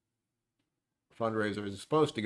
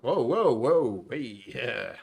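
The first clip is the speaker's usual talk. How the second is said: amazed; 5 dB louder, much slower than usual. Real, not acted. Sees a new donation come in.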